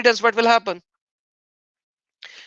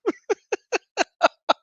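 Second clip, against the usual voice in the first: laughing; 9 semitones higher than usual. Real, not acted. Laughing after dare.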